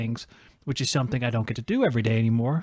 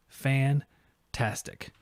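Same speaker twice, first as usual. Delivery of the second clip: Fantastic stretched out very slowly; a slow, satisfied Fantastic; slow drawn-out fantastic; 4 dB quieter, much slower than usual. Real, not acted. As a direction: draw out Fantastic, savoring each syllable. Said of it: "It's fantastic".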